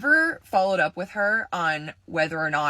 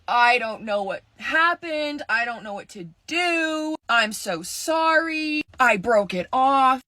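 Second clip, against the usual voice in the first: imitating crying; 4 semitones higher than usual. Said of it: "she's hysterically crying".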